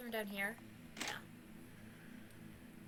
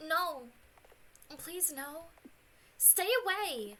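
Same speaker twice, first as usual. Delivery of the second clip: frightened pleading; 4 semitones higher, slower than usual. Acted. Character pleading.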